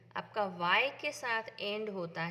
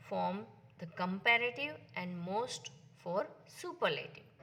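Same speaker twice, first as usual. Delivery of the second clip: slow rule reading; much slower than usual. Shown as a demonstration. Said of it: "teacher reads the rule aloud".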